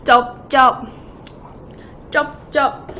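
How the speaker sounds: smack your lips like chewing. Shown as a demonstration. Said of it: "쩝쩝 소리 너무 많이 나요".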